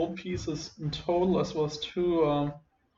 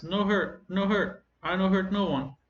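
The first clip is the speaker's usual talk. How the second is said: higher, trembling, pleading goblin; quavering goblin voice; 4 semitones higher than usual. Acted. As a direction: beg like a frightened little goblin. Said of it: "kinda like a quavering voice".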